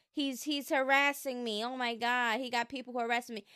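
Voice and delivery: mocking her complaint in a put-on voice, last part rushed; hammed-up imitation of a victim's whine; lightly mocking quote of her claim; mock whiny complaint.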